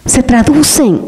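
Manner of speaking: slow, breathy whisper of a personal truth; slow intimate whisper; whispered aside. Real, not acted. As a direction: whisper it to yourself, slowly.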